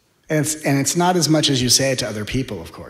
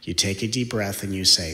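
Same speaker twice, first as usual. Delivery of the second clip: ordinary talk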